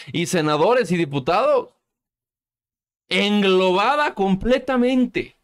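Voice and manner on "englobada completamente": high, slow, drawn-out derision; scornful, raised-pitch drawl; mocking echo. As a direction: stretch each word out in mock disbelief. Mockingly repeats the senator's word.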